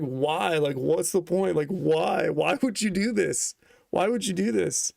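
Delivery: high, giggly pleading why; laughing. Retold or imitated. Retelling asking his friend why, through helpless giggles. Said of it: "I was just laughing".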